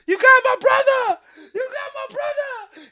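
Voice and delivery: very high squeaky crab voice, laughing; angry crab. Pretend. The second crab in the sink yells at him, squeaky and high. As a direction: shriek like a furious little crab.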